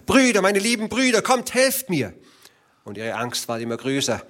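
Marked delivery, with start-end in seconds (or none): 0.1-2.1 high, quick, desperate cry; screaming for help. A narrator's reading. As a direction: scream for the brothers again. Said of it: "Da schrie sie noch einmal".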